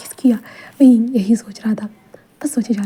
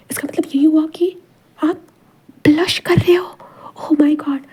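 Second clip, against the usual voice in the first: higher, playful and delighted teasing; excited teasing; 4 semitones higher than usual. Acted. Wing teasing Wang ji about his red ears, excited and higher. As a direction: rise higher as you catch him blushing.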